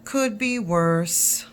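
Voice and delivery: put-on slow, deliberate old grandpa; lightly voiced grandfather, unhurried; deadpan grandpa catchphrase; slow grandpa drawl.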